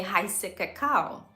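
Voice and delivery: "Kakao" said slowly the German way; German pronunciation. Shown as a demonstration. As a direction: say "Kakao" as in German, stress on the end. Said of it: "We say".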